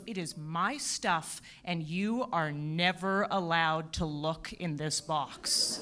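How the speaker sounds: slow, low, ominous husband; husband's warning. Retold or imitated. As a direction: drag it out like a solemn warning. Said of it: "And he goes".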